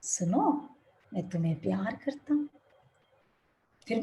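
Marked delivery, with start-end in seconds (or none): 0.0-2.5 the mountain echoing back the father's words; fading echo. Retold or imitated. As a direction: let the words die away like an echo. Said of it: "अब आवाज क्या आएगी?".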